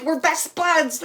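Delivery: high, loud, drawn-out cheer; exuberant pals. Retold or imitated. Medium voicing two spirits who like each other, exuberant. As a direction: stretch it out in chummy imitation.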